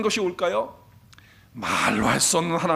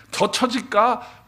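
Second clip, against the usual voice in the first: very slow, drawn out; 3 semitones higher, much slower than usual. Real, not acted. Drawn out rhetorical question.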